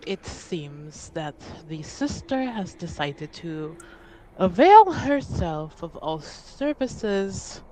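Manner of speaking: measured, soft formal report with long pauses; lightly voiced formal envoy, choosing words with care; weary envoy. Envoy reporting on the sister's dealings, weary and formal.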